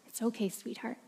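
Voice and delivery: calm her gently; father comforting his daughter; soft reassurance. Acted. Father soothes.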